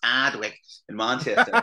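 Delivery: Manchester "Ardwick", R dropped, long open first vowel; attempted Manchester accent. Actor rehearsing for an audition, trying "Ardwick" in Manchester accent. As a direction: try "Ardwick" the Manchester way, as "Aadwick". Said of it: "horrific sort of northern Manchester accent".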